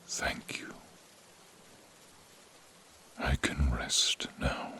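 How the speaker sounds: last peaceful whisper; dying whisper. Acted. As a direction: let the voice fade into rest.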